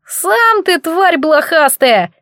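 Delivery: a squeaky high dough creature, slow and defiant; bold squeak. Acted. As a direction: squeak it brave and cheeky. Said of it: "смело пропищало мучное недоразумение". (колобок храбро пищит на оборотня, высоко и медленно)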